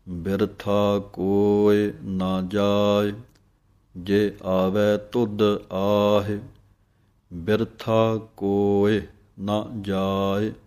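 measured, drawn-out recitation of gurbani; slow devotional recitation; slow scripture recitation. Shown as a demonstration. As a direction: recite each word slowly and clearly. Recites scripture line slowly.

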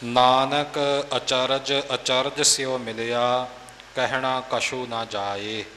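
slow, chanted model reading of the line; model recitation. Shown as a demonstration. Teacher models the verse for the student, slow chant. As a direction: chant it slowly to show the pace. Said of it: "ਚਾਲ ਮੁਤਾਬਕ ਪਾਠ ਦਾ ਉਚਾਰਨ".

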